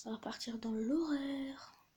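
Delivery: slow, stretched-out announcement; drawn-out announcement. Real, not acted. Streamer settling on the horror genre, slow and drawn out. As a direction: stretch the last word right out.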